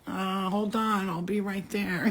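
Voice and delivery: drawn-out, sluggish stalling; slow-mo voice. Acted. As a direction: act out a body lagging in slow motion. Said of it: "it's like in slow-mo".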